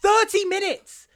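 loud, slow, high exasperated yell; exasperated rant. Real, not acted. Podcaster ranting about the film's pace, loud and slow. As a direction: blow up at how long the film takes.

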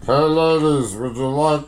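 put-on lightly drunk old sleaze; drunk Robert Kraft. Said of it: "he is a hundred percent drunk".

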